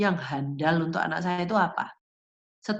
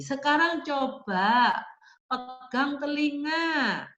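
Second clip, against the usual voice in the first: slow, higher-pitched coaxing command; instruction to child; 5 semitones higher, slower than usual. Shown as a demonstration. Teacher showing parents the next task for a child, slow and coaxing. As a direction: draw the words out for a small child.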